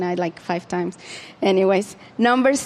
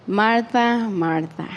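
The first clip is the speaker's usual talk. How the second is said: loving and gentle; slower than usual. Retold or imitated. Jesus tenderly calling Martha by name. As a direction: say her name gently, letting it fall away. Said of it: "so loving and gentle".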